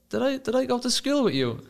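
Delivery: high, mock-innocent sarcasm; sarcastic question. Manager teasing the new boy, mock sarcastic. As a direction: needle the kid with fake puzzlement.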